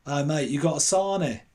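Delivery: mildly put-on street fella asking for food. Local fella accosts student over his sandwich, lightly imitated street fella. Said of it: "this fella goes".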